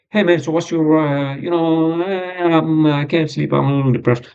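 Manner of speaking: lightly mocking, drawled-out fillers; casual doctor's chat. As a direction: mimic a slack, dragging consultation. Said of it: "a guy who's like".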